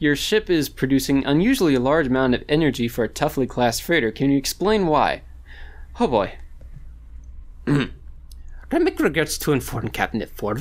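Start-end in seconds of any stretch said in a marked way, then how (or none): 7.7-10.6 put-on character voice, slow, drawn out, swooping. Replying to a ship-scan demand to Captain Ford, in a put-on character voice. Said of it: "I don't know if I can do his voice".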